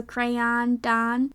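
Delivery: crayon slowly as cray-AHN, matched to Don; crayon rhyming with Don. Shown as a demonstration. Testing a version that feels weird, crayon rhymed with Don. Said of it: "like Don".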